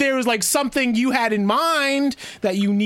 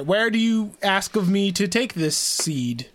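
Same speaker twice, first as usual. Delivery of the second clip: slow, formal fancy speech; talking fancy; slower than usual. Pretend. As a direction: speak like a courtly hero. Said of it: "I love when Ron tries to talk fancy".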